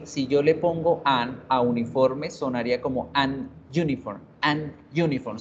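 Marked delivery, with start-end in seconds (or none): 3.1-4.2 "an uniform" with a small break after "an"; broken fluency. Shown as a demonstration. Teacher showing why the article is wrong, choppy "an uniform". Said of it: "se corta ahí como un momentico la fluidez". 4.4-5.4 "an uniform" with a small break after "an"; broken fluency. Shown as a demonstration. Teacher showing why the article is wrong, choppy "an uniform". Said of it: "se corta ahí como un momentico la fluidez".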